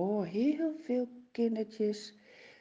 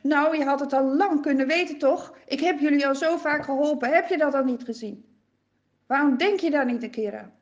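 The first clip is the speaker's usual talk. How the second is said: reproachful; 3 semitones higher, 6 dB louder, faster than usual. Acted. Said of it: "De Heere zegt niet van".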